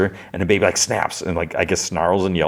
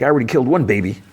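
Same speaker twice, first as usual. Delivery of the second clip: high, very fast put-on voice; Sweet Tooth; 6 semitones higher, 3 dB louder, much faster than usual. Bragging to the holy man, high rapid character voice. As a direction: rattle it off as a hammy character. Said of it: "Sweet Tooth is like".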